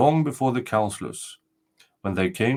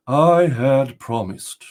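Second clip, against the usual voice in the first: fearless, firm reply; 4 semitones higher, 6 dB louder, much slower than usual. Acted. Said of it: "with a fearless look".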